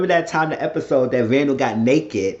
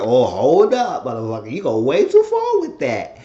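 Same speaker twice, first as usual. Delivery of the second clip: outraged; 4 dB louder than usual. Real, not acted. Speaker's outraged reaction.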